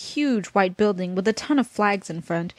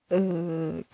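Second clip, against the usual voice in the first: attempted laugh; 3 semitones lower than usual. Real, not acted. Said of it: "I can't do that laugh".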